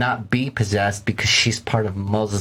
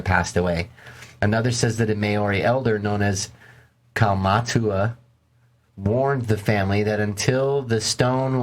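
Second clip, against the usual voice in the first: measured documentary-style read; story narration. A narrator's reading.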